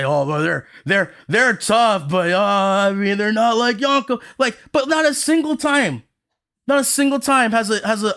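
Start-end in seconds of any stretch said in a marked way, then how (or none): 0.0-4.2 mocking fans. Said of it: "I've seen people say".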